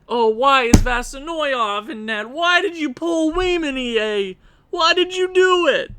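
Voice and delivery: high, loud disbelieving cries; outraged high wail. Real, not acted. Fan yelling at the coach over the goalie pull, high outraged wail. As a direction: demand answers from the coach.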